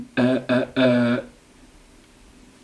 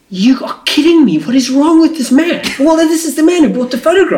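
high, animated disbelief; real incredulous outrage; 12 semitones higher, 3 dB louder than usual. Real, not acted. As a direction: exclaim in amazed disbelief, pitched way up. Listener reacts in disbelief to story.

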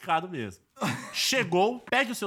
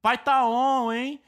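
hearty bro talk, higher and louder; 4 semitones higher, 4 dB louder, slower than usual. Retold or imitated. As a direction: imitate a pumped-up gym bro. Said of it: "sempre se resume a".

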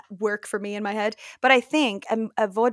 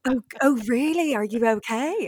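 laughing mock concern; 2 semitones higher than usual. Friend's mock-concerned reaction.

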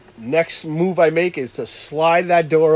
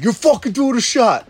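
higher insistent voice as Dave; pushy friend; 8 semitones higher, 3 dB louder than usual. Retold or imitated. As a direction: insist like a drunk buddy. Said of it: "He's like".

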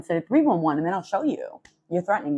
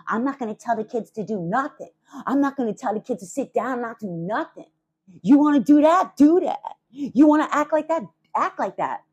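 higher, louder mimic of a neighbour yelling; mocking the neighbour's yell; 6 semitones higher, 4 dB louder than usual. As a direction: parody her yelling at the kids. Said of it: "she's saying".

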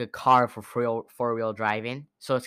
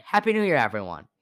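excited greeting; 2 semitones higher, 4 dB louder than usual. Real, not acted. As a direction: burst out with the greeting. New Year greeting to listeners.

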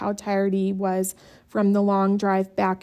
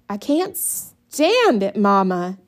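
whiny yell; 5 dB louder, slower than usual. A narrator's reading. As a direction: wail it at Mama. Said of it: "Brenda yelled".

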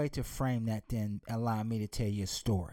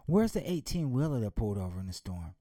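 father's voice; 4 semitones lower than usual. Acted. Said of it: "He said".

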